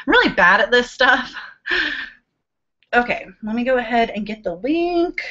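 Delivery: talking with hiccups. Real, not acted. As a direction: speak between hiccups. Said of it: "Sorry, I keep hiccuping".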